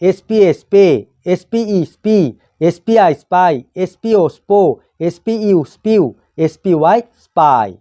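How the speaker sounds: teacher's measured spelling recitation, pausing between items; pronunciation drill. Shown as a demonstration. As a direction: spell out the letters, then sound the blend. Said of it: "উচ্চারণ এইভাবে হয়". (বানান করে উচ্চারণ শেখানো)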